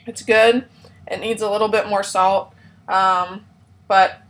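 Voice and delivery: talking through a mouthful; chewing while talking; mouth full. Real, not acted. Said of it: "sorry, I'm talking with my mouth full".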